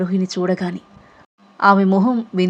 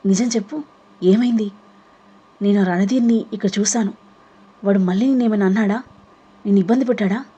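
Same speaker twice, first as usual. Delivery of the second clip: anxious. Acted. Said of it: "అడిగింది గాబరాగా".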